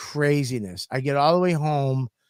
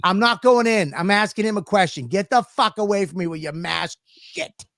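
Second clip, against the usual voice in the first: angry snap; 5 semitones higher than usual. Retold or imitated. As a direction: tell the guard off, annoyed. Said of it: "I go, I go".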